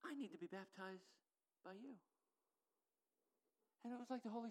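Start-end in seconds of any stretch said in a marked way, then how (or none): 0.0-2.0 quiet repeat. Shown as a demonstration. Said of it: "Listen to what he says".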